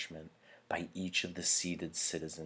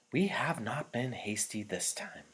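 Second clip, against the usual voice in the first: chief elder; 7 semitones higher than usual. A narrator's reading. Elder reassures audience.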